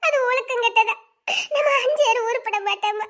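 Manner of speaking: tearful, despairing protest; worn down and weeping; crying. Acted. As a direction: plead through sobs. Despairing girl crying to her friend.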